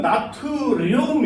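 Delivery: 나트륨 drawn out like a foreign word; showy foreign-style 나트륨; exaggerated foreign reading. Shown as a demonstration. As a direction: stretch each syllable of 나트륨. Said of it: "이렇게 읽고".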